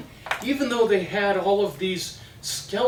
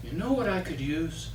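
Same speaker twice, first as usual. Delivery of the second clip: softer, coy musing; the witch slyly hinting at a husband; scheming witch; 4 semitones lower, 5 dB quieter than usual. Acted. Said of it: "the queen thinks about it".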